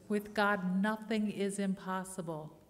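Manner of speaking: loud, ringing proclamation; preaching at full force. Real, not acted. Pastor proclaiming to her congregation, loud and fervent. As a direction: lift it up and proclaim it to the room.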